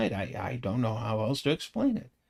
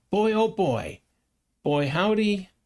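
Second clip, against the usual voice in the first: playful exclamation; 8 semitones higher than usual. Real, not acted.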